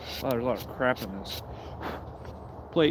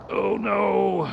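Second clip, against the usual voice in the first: alarmed cry of oh no; sudden startled exclamation; surprised; 7 semitones higher, 3 dB louder than usual. Real, not acted. Sudden mishap.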